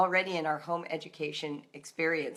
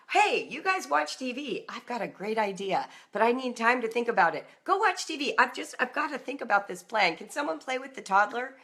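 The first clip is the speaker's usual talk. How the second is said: put-on preoccupied mom to kids; 3 semitones higher than usual. Mom sending kids off to watch TV, preoccupied and eager. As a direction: brush the kids off with a new idea brewing.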